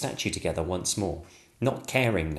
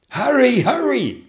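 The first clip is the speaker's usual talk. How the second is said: gasped; 8 dB louder, slower than usual. Acted. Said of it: "gasped the Lord Chamberlain".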